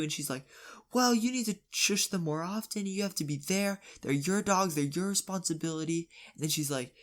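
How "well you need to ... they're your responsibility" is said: higher-pitched mock lecture; scolding. Neighbour lectures dad on his responsibility for the dogs, scolding. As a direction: imitate a neighbour telling someone off. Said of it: "then the lady starts scolding him".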